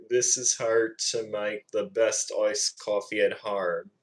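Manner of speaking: practised Aussie accent attempt; Australian accent. Shown as a demonstration. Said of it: "trying to do a good Australian accent impression".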